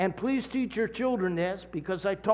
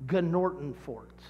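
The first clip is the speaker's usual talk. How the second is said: slow demo word; 4 semitones lower, 3 dB quieter, slower than usual. Shown as a demonstration. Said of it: "The word is".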